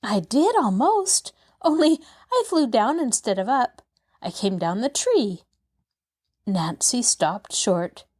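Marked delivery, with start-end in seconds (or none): 0.0-5.4 put-on bright, high little girl; a lightly voiced eager child; young girl voice. Narrator voices Pollyanna.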